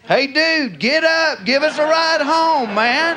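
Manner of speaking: hint of drunken wheedling; drunk begging. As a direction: pester a friend for a ride, slurry. Drunks begging a ride home.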